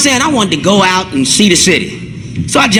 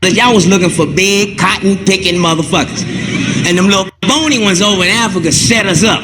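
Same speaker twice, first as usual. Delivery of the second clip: put-on Jamaican accent; 3 semitones lower than usual. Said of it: "that accent is Jamaican".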